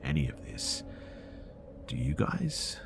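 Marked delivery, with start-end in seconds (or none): 1.9-2.8 whispered question to the audience. Real, not acted. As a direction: ask it in a hushed whisper.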